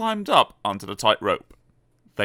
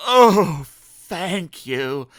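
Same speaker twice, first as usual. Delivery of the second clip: sigh of relief; 7 semitones higher, 6 dB louder, much slower than usual. Acted. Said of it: "with a sigh of relief".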